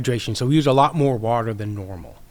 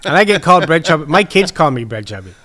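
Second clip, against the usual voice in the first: laughing; 4 semitones higher, 9 dB louder than usual. Real, not acted. Laughing over his nickname.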